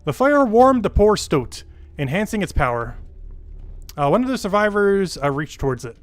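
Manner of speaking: dramatic storyteller, swooping up on phrase openings; measured, theatrical game-story read; story narration. Acted. Reads game story aloud.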